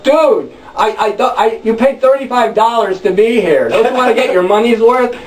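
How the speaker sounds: a hint of a nervous peacemaker. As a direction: coax him out of it, half-joking. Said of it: "And I'm like".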